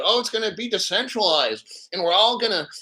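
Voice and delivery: sneering parody of other channels; mock their naive prediction. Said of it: "these other channels".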